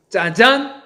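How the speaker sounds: loud, high ta-da. Acted. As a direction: announce it like a magic trick. Grand reveal exclamation. (신나는 "짜잔!")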